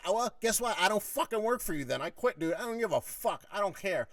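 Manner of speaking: high, loud, defiant retort; worked-up, done-with-you outburst; retold angry quitting. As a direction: quit on the spot, re-enacting the row. Retold quitting in shouting match.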